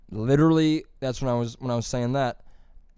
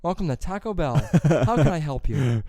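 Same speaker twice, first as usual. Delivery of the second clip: Siri voice; 3 semitones higher than usual. Retold or imitated. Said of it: "like that Siri voice".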